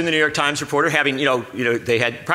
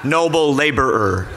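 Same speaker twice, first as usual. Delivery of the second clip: very slow, drawn-out questions, projected; loud, slow voice; much slower than usual. Pretend. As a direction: reporter talking down to a worker, mockingly slow. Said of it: "speak in a loud, slow voice".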